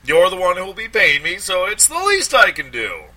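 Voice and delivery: high, loud, fawning stammer; stammering Applegate. A narrator's reading. Lawyer gushing at a paying client, high stammering voice. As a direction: gush over the client, tripping on words.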